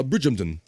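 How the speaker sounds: Bridgehampton with -hampton reduced to a quick "-jumton"; careful local pronunciation. Shown as a demonstration. Host trying a town's name properly, careful "BRIDJ-um-tun" for Bridgehampton. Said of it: "did I do the Bridgehampton properly".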